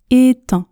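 "Éteint" as two words linked by t; liaison. Shown as a demonstration. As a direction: sound the linking t in "Éteint". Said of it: "je fais la liaison". (« Éteint » avec la liaison en t)

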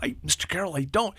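high, soft, sheepish admission; acted timid kid, faltering; hesitant young boy. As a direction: play a small boy who has no answer. Boy admits he doesn't know.

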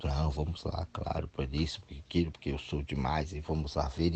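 quiet, self-satisfied controller voice; controlling person. Retold or imitated. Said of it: "se eu fosse um controlador".

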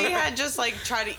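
high laughing delivery. Real, not acted. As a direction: laugh through the words. Laughing at the twist.

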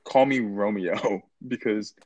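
put-on giddy lovestruck teen. Younger self, high and loud.

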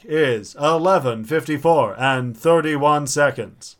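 stiff automated time announcement; talking alarm clock. Pretend. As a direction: read the time like a speaking clock. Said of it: "the talking clock".

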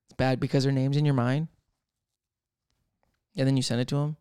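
whispered confession. Real, not acted. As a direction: lean in and whisper it. Confiding aside.

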